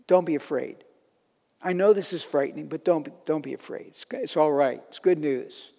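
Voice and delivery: calm a frightened priest softly; gentle angel. Acted. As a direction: angel soothing Zechariah, lightly voiced. Angel voiced gently to Zechariah.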